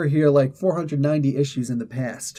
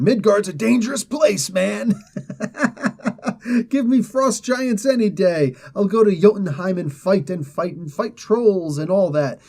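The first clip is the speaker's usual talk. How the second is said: freaked out; 5 semitones higher than usual. Acted. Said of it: "sees all sorts of freaked out".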